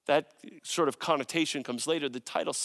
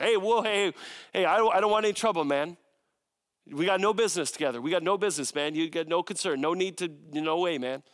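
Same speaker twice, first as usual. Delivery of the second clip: a lightly voiced nervous street dealer; petty thief caught; faster than usual. Dealer to police officer, lightly nervous backing off. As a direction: back off casually from the cop. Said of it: "a petty thief or a drug dealer asks".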